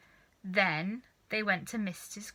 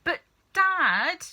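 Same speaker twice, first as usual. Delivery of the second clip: put-on boy pleading; 9 semitones higher, 8 dB louder than usual. A narrator's reading. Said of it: "George said".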